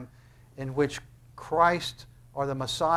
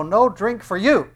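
high, slow, loud denial; mock refusal; 5 semitones higher, 6 dB louder than usual. Preacher saying what he would say, slow mock refusal. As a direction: refuse them with drawn-out relish. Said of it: "And I would say".

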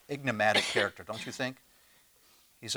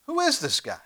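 amazed question; 12 semitones higher than usual. Real, not acted. Preacher marvels at Jesus.

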